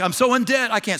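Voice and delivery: mock whining excuse. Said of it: "some of y'all are like".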